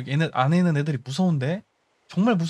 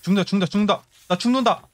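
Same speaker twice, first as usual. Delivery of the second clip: panicked cry; faster than usual. Real, not acted. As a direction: cry out you're dying. Getting hit, dying.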